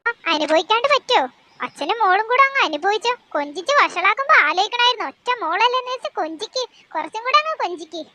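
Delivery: a mother throwing up her hands; exasperated mother. Acted. Mother voice continues.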